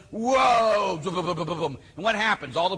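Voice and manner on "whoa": high, drawn-out mock revival cry; hammed-up televangelist holler; Benny Hinn. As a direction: imitate a faith healer flinging out power. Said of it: "And he goes".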